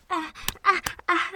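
loud gasping sobs; sobbing break. Acted. Pet breaking down while apologizing, sobbing.

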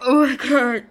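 loud pained cry from the burn. Real, not acted. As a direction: cry out from the burning throat. Burning throat after vodka.

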